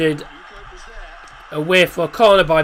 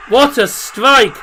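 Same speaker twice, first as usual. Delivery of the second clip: excited shout; 5 semitones higher, slower than usual. Real, not acted. Goal praise.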